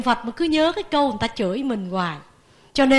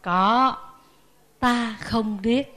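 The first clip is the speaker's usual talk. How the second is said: calm reply; 3 semitones lower, 3 dB quieter, much slower than usual. Retold or imitated. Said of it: "Đức Phật có trả lời không".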